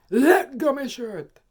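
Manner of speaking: loud, high, slow bellow; angry shout. Retold or imitated. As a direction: roar it at the woman grabbing him. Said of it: "next minute me hear".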